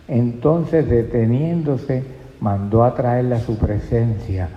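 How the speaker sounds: slow, even verse reading; measured scripture reading. Real, not acted. Preacher rereading the verse to the congregation, slow and measured. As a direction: read the verse out unhurriedly.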